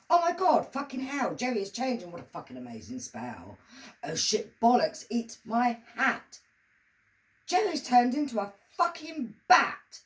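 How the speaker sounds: high, loud, shocked outburst; shocked exclamations. Acted. A witness shrieking as Jerry turns into a bat, high and loud. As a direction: yelp it out in disbelief.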